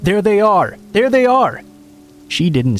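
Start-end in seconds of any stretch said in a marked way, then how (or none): 0.0-0.8 yelling. Acted. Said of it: "started yelling". 0.9-1.6 shrill triumphant yell, pitched way up; high yelling. Acted. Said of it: "started yelling".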